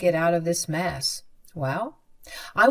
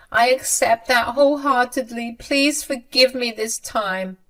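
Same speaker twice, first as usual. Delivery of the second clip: higher, louder begging voice, near tears; tearful pleading mother; 5 semitones higher, 4 dB louder than usual. A narrator's reading. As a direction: plead with her son for forgiveness, voice raised high. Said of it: "Sabrina cried and said".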